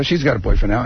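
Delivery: ordinary talk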